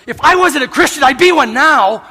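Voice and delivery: loud, high laughing punchline; laughing quote. Retold or imitated. Outfitter at the campfire joking loudly, laughing. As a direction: deliver the joke through a laugh.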